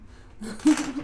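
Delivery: amused burst of chuckling; spontaneous real chuckle. Real, not acted. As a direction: chuckle at an unexpected thought. Chuckles at her unplanned coincidence.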